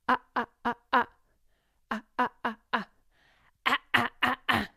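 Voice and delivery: teacher demonstrates the rock distortion sound, gritty ah; distorted ah. Shown as a demonstration. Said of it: "This is the distortion sound".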